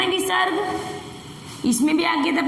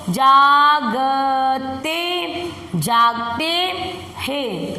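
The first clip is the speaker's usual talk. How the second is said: slow reading demo; 3 semitones lower, much slower than usual. Shown as a demonstration. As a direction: stretch each sound of जागते. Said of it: "पढ़ो". (धीरे धीरे खींचकर)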